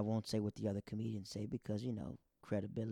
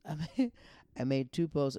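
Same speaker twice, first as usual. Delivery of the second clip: laughing; 4 semitones higher, 4 dB louder than usual. Real, not acted. Laughing admission.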